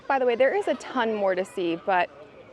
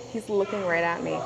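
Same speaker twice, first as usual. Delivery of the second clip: ordinary talk, nothing marked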